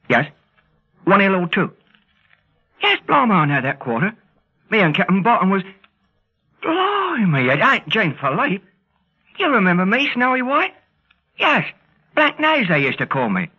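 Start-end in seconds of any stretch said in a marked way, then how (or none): 2.8-7.5 high-pitched, delighted-to-know-you surprise; amazed phone reaction; surprised recognition. Acted. Recognizes an old friend by phone. 12.1-12.7 high-pitched burst of recognition; thrilled to be remembered; excited recognition. Acted. Recalling old nickname to friend.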